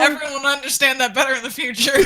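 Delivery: chuckling while hinting at a secret; laughing. Real, not acted. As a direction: giggle out a teasing hint. Teasing laugh about spoiler.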